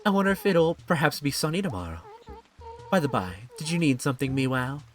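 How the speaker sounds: lightly voiced, formal and lilting character; a touch of genteel small talk; polite game character. Game character greeting Meow on a rainy evening, lightly voiced politeness.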